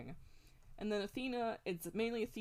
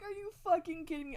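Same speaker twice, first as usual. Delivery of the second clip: high-pitched mock disbelief; retold outrage; 10 semitones higher than usual. Gamer recalling their reaction to an ending, mock-outraged. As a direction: re-enact being mad, voice jumping up. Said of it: "legitimately mad that that".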